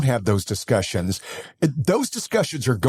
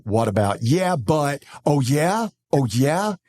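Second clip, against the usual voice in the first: mock defensive; slower than usual. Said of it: "I'm not gonna try to go".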